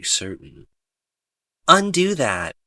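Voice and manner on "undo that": sharp high command to the system; commanding call. Acted. Player ordering the game to undo the lamp, commanding. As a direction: order it undone, loud and high. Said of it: "I say".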